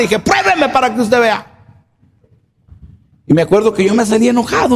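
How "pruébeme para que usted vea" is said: slow, higher, challenging; slow defiant dare. Retold or imitated. Son challenging his mother, slow and defiant. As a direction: drag it out as a dare.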